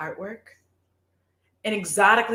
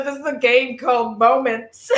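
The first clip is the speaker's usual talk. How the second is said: laughing; 2 semitones higher than usual. Real, not acted. Still laughing while explaining.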